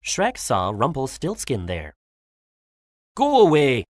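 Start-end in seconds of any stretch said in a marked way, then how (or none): 3.1-3.9 loud storybook rebuff; louder, irritated brush-off; angry dismissal. A narrator's reading. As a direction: send them off crossly and loudly. Shrek angrily dismisses Rumpelstiltskin.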